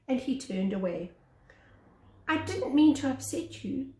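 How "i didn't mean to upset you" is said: hurried. Acted. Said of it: "Shrimp began hurriedly".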